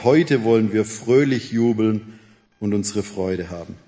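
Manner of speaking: measured, solemn reading of a psalm; scripture reading. Acted. Preacher reading Psalm 118 to the congregation, solemn. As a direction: read the psalm to the congregation, unhurried.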